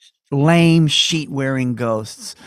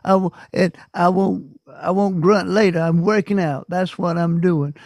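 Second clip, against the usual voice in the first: higher-pitched aunt talking to herself; aunt's inner voice; 5 semitones higher than usual. Retold or imitated. Aunt telling herself why she grunts, in a raised voice. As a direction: voice an old aunt's self-justifying thoughts. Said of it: "in her mind, she was".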